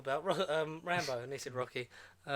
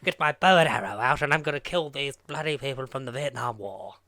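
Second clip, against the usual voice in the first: mock posh Rambo; 7 dB louder than usual. Mocking Rambo as posh English, loud hammed-up voice. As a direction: play Rambo as a proper gentleman. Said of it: "spent the film going".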